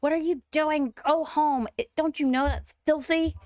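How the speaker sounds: high, scolding neighbour voice; lightly voiced disapproving lady; voicing a snooty townie. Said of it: "She's like".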